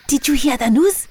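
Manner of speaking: high, eager hyena voice; bursting with news; excited hyena. Acted. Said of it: "with great excitement".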